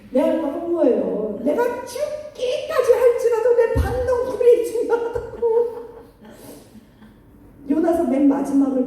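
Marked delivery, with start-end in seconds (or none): 1.4-5.4 high, laughing mock-stubborn whine; mock stubborn Jonah. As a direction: play Jonah clinging to his plant, half laughing. Jonah voiced insisting stubbornly. (웃으며 고집부리는 요나 흉내)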